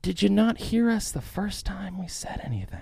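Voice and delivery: high put-on indignant voice; mock protester voice. Host voicing people fed up with shots, high mock voice.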